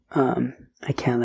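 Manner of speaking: real whisper from a failing voice; hoarse-day whisper, barely voiced; losing voice whisper. Real, not acted. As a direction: whisper it, the voice is going. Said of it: "I think I might be losing my voice".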